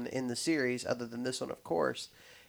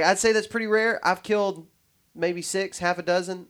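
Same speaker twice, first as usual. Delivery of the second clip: higher-pitched put-on New York accent; New York accent impression, pitched up; 5 semitones higher, 3 dB louder than usual. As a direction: retell his answer as a mock New Yorker. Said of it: "thinking of this in the New York accent".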